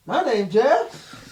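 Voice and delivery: high and very slow, dopey; slow Jeff voice. Acted. Jeff calling to the goblins behind the door, slow and high. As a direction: stretch it out like a simple brute. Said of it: "I say".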